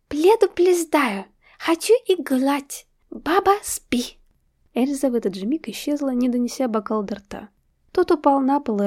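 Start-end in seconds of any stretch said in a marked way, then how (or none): 0.1-4.2 put-on "Пледу плездаю" with l for every r, high slow toddler; high childish "Пледу плездаю", r swapped for l; says l for r. A narrator's reading. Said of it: "картаво произнесла".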